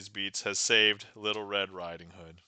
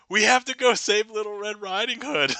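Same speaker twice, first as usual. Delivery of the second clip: moderately high, loud woodsman voice; less squeaky redo; 12 semitones higher, 7 dB louder than usual. Acted. Woodsman urging rescue again, toned-down high voice. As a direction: bring the squeak down a notch. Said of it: "has a high-pitched voice".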